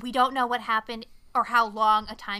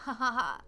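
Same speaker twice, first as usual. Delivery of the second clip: imitated villain chuckle; mock laughter. Retelling the villain denying it to his victim, mock laughing. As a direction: laugh a put-on ha-ha-ha.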